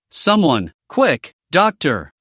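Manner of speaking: put-on slow, strained plea of a dying old man; hoarse dying old man. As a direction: drag it out like a frail old man. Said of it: "The hoarse voice had lost its former authority".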